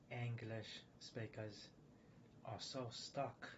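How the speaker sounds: slow, lightly put-on British accent; British accent, slowed right down; mimicked British accent. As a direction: draw it out in a mock British accent. Mimicking other English speakers as stuck.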